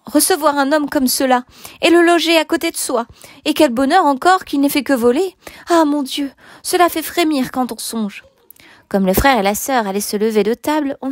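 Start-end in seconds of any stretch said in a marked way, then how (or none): 0.0-8.2 high, scandalised complaint to oneself; indignant grumbling. A narrator's reading. Housekeeper frets alone over lodging a thief, scandalised. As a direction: complain to yourself, pitched up. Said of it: "toute seule en allant et venant".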